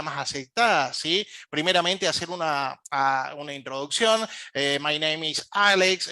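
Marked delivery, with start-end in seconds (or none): 4.8-6.1 slow phonetic English. Shown as a demonstration. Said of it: "Ahí tenemos la fonética".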